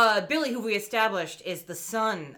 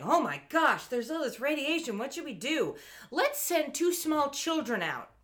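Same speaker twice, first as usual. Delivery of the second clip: higher, hammed-up cartoon panic; mock freak-out; 6 semitones higher than usual. Lab crew facing a radiation leak, mock freak-out. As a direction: play at panicking in a raised voice. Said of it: "freaking out, like".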